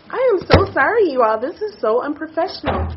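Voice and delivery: high voice, crying while apologizing; tearful apology. Real, not acted. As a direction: apologize through real tears, flustered. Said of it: "I can't believe I'm crying".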